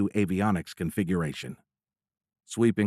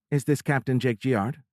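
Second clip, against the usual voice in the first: female caller voice; 5 semitones higher than usual. Acted. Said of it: "asked a feminine voice".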